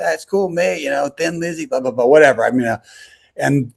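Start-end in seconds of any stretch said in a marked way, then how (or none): 0.0-2.1 light mock English accent. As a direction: imitate an Englishman's offhand chat. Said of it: "kind of an English accent".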